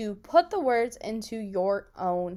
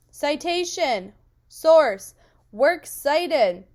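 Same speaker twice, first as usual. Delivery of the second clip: raised voice, higher and louder; 5 semitones higher, 7 dB louder than usual. Leading learners in repeating vocabulary words: a bit louder. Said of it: "Say it a bit louder".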